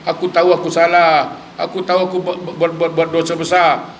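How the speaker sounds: acted-out repentant plea, pressing on without letup; pleading prayer. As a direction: implore God as the remorseful sinner. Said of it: "Dia minta". (rayuan taubat yang dilakonkan)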